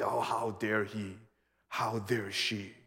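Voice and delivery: slow, drawn-out scandalised tut; mock indignation. Preacher mimicking people who judge others. Mocking self-righteous judgers.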